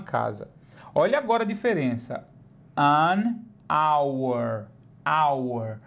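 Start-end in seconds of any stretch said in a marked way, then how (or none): 2.8-5.8 "hour" said with no H, starting on the vowel; silent H. Shown as a demonstration. Teacher contrasting "hour" with "house", silent H. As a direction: open "hour" straight on the vowel sound. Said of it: "aqui o som é hour".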